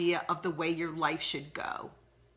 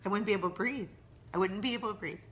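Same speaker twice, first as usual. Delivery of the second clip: choking up; 4 dB quieter, much faster than usual. Real, not acted. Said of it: "I told myself I wasn't gonna cry".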